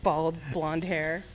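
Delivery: quietly horrified at the memory; hushed regret; dismayed. Retold or imitated. Grandpa died after seeing haircut.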